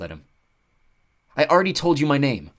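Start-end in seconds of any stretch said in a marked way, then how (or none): 1.4-2.5 annoyed. Acted. Nico scowling.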